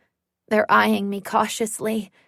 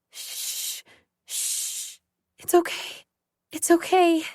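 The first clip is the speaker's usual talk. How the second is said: breathless whispered calming; whispered soothing; 7 semitones higher, 3 dB quieter than usual. Acted. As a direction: whisper the shushes, then a higher soft it's okay. Soothing dog sniffing her hand.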